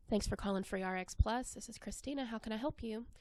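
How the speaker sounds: quiet, hurried, flat greeting; hushed and rushed. Shown as a demonstration. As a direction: mumble it quickly like a chore. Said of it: "Hushed tones, sped up".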